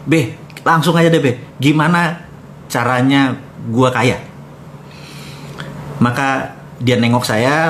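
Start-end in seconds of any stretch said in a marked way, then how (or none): 0.1-4.2 imploring. Retold or imitated. Young man begging his smoking godfather for wealth, imploring.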